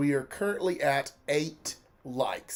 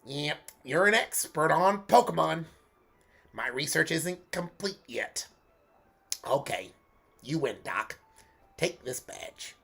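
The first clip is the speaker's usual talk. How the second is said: Bugs Bunny voice. Acted. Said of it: "going for a Bugs Bunny sort of sound".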